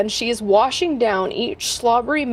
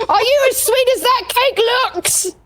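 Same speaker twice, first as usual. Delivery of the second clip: giant's demanding bellow; 10 semitones higher than usual. Acted. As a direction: roar it out like a greedy giant. Giant questions the goblin.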